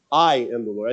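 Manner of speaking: I am the Lord with the weight on I; stress on I. Shown as a demonstration. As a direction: lean on the word I. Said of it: "I think there was emphasis on the word "I".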